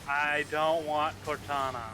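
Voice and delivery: slow, drawn-out refusal; stubborn refusal. Real, not acted. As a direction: refuse the computer word by word, slowly. Refusing the computer's setup prompts.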